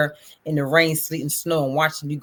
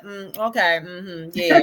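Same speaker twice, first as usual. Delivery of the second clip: nonchalant; slower than usual. Retold or imitated. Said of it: "I won't do the nonchalant".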